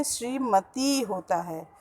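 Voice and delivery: श्रीमती with drawn-out "tee"; long final vowel. Shown as a demonstration. Teacher teaching the correct form, श्रीमती with long final "tee". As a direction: stretch the last ee of श्रीमती. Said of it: "त में बड़ी की मात्रा".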